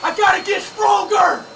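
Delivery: slow, drawn-out shout of self-encouragement; self-hype shout. Real, not acted. Yelling at himself mid-workout, slow pumped shout. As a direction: pump yourself up, yelling slowly.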